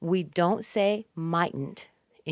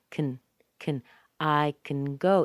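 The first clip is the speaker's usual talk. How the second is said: "can" short, dropped to "kn", stress on "go"; reduced, unstressed "can"; very small "can". Shown as a demonstration. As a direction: swallow "can", land on "go". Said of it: "is very small".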